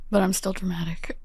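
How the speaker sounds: whispered aside; whispering. Real, not acted. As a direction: whisper it to yourself. Guest's self-mocking aside.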